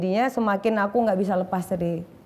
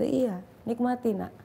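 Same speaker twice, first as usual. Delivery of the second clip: gentle mother; 6 dB quieter than usual. Retold or imitated. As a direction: soothe your child.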